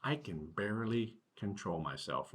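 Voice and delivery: excited rabbit. Acted. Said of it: "Remember, the rabbit's very excited".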